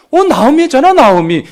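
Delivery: high, loud cry of recognition; a sudden high delighted gasp of a name; excited recognition. Retold or imitated. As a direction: call out her name, thrilled to spot her. Townswomen recognize Naomi, exclaiming.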